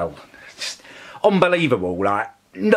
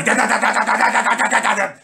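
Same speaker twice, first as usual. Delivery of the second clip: higher rhythmic da-da of a pounding machine; imitated machine noise; 9 semitones higher than usual. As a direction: mimic the drill hammering away. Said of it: "that bloody machine they've been using all day".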